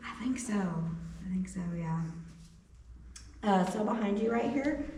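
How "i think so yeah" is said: breathy hushed repeat; whisper. Real, not acted. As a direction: drop to a whisper. Repeats answer, then whispers it.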